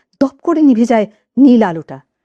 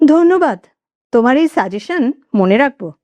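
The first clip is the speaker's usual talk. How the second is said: ধন্যবাদ lifted higher, lightly ironic; slight sarcasm; 4 semitones higher than usual. Acted. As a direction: thank her with a faint sneer. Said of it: "ঈষৎ ব্যঙ্গের সুরেই বলে সমর".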